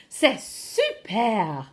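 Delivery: slow, drawn-out French enthusiasm; expressive French delivery. Shown as a demonstration. Teacher modelling praise for pupils, expressive. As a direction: stretch the French phrase with relish. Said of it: "Bring your expression".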